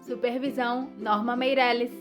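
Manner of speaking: ordinary delivery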